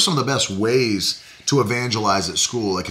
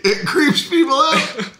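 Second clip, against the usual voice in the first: high mock voice; 14 semitones higher, slower than usual. Echoing in a put-on voice.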